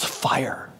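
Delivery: whispered shout of alarm; restrained mock yell. Preacher voicing Paul's urgent warning, hushed mock yell. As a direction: mimic a yell under your breath, no volume. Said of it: "and he yells".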